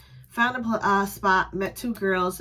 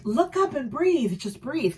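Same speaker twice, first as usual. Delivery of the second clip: calming coaching; 5 semitones higher, slower than usual. Retold or imitated. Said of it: "I'm like".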